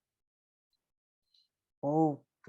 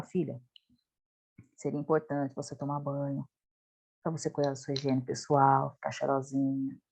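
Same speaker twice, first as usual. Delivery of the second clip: soft, much softer and lower, kind; tender, quiet and patient; gentle request; 9 semitones lower, 8 dB quieter than usual. Shown as a demonstration. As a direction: coax her gently like a caring mum. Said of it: "É totalmente diferente".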